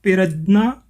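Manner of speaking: पिरजना with an extra i after p; letter-by-letter reading. Shown as a demonstration. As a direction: say पिरजना as "pi-raj-naa". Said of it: "तो ये बन गया".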